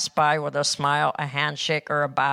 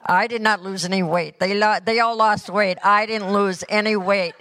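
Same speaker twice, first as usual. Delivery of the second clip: raised, emphatic mock complaint; playful protest; 5 semitones higher, 4 dB louder than usual. Real, not acted. Traveler jokes to congregation about the others' weight loss, mock-indignant. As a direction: protest it higher and louder, for laughs.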